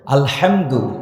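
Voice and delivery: আলহামদু with a tight, throaty হা; hard throaty ha. Shown as a demonstration. Preacher showing the congregation how to recite, hard throaty ha. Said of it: "কঠোর করে আমি পড়েছি".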